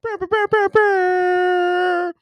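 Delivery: loud, high mimicked air horn. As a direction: blare a stuttered air-horn burst. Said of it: "let me D J it up now".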